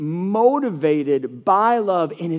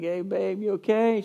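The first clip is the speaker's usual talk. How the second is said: tender concern; 3 semitones higher, 3 dB quieter than usual. Retold or imitated. Dad checks on his sick daughter.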